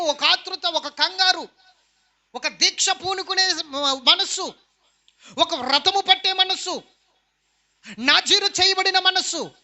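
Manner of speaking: forceful challenge from the pulpit; impassioned preaching. Real, not acted. Preacher demanding fear of God and devotion, impassioned preaching. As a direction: press each point on the congregation.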